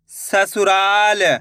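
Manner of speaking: slow, drawn-out blending of the word; slow clear reading. Shown as a demonstration. Teacher to pupils, blending the word slowly. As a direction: stretch each syllable for the pupils. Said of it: "एक एक अक्षर का उच्चारण सही से करना".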